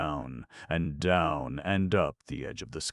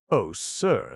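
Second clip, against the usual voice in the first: a touch higher, louder lady's voice; lightly voiced lady; 5 semitones higher, 6 dB louder than usual. The lady answers her caller, lightly voiced lady. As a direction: lightly put on a coy lady.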